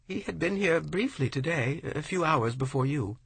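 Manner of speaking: high, worried woman's voice; confused and pleading, pitched high; the widow questions the poet, high and distressed; anxious widow. A narrator's reading.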